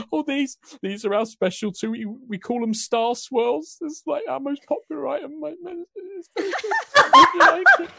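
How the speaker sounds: put-on very high English accent rising into a laugh; English baker woman. Baker woman offers her best cookie, high English accent. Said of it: "I'm gonna lose all my accents".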